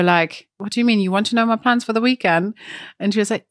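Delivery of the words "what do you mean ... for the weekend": mildly baffled, higher-pitched questioning; retold confusion. Caller confused by agent's weekend question, mildly baffled imitation. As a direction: imitate someone thrown by small talk. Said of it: "you were so confused".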